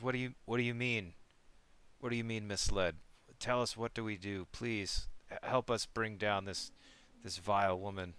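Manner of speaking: mildly desperate, hurried plea; urgent pleading. Acted. Stunned follower begs the dragon god for help, pleading. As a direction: beg for answers with a touch of urgency.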